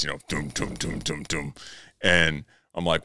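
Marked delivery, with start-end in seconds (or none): 0.3-1.5 soft low doom doom of heavy steps; stomping footsteps. Retold or imitated. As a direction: mimic heavy stomping feet, quietly. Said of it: "I'm stomping upstairs".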